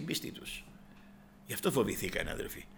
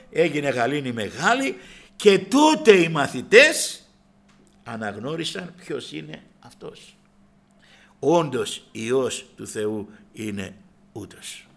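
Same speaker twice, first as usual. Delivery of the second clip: slow preaching climax; 8 dB louder, slower than usual. Acted. Preaching climax over music.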